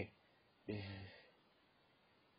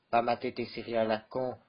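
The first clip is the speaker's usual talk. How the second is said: ordinary talk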